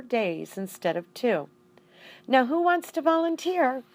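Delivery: lightly voiced schoolteacher to her class; teacher addressing class.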